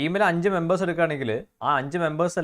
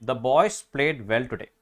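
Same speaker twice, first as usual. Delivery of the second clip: slow read; much slower than usual. Shown as a demonstration. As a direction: read the example slowly again. (പതുക്കെ വായിക്കുക)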